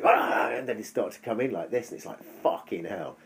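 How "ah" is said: very high, loud yelp of alarm; sharp cry. Retold or imitated. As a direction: blurt a piercing ah as the dogs close in. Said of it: "they'd go".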